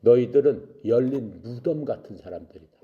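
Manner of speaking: understated angry scolding; denouncing. Acted. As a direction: denounce them in firm, separated phrases. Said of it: "욕을 했어요".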